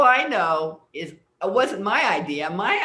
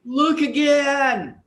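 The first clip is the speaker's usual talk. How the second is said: inner voice warning; 6 semitones higher, 7 dB louder, much slower than usual. Retold or imitated. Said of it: "I hear this voice that says".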